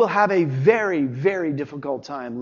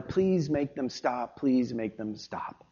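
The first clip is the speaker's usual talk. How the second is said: put-on pleading child; 3 semitones lower, 6 dB quieter, slower than usual. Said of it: "the child is yelling at his mother".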